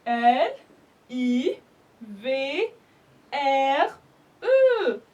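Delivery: letter by letter, clear; spelling out letters. Shown as a demonstration. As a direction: spell the word for the class. (épeler lettre par lettre)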